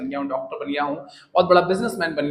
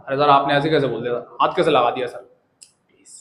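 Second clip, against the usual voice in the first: mild student protest; 2 semitones lower, 5 dB louder than usual. Shown as a demonstration. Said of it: "एक बात रखने का जो तरीका होता है".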